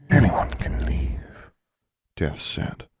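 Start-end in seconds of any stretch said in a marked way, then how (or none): 0.1-1.5 grim reaper voice. A narrator's reading. Death speaks, whispered.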